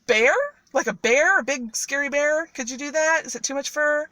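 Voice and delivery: lightly acted wheedling cat; coaxing questions. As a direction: egg the ogre on with innocent questions. Cat coaxes ogre with questions.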